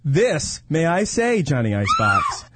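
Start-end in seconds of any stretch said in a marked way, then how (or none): 1.4-2.6 shouting. Real, not acted. Announcing guest with a shout.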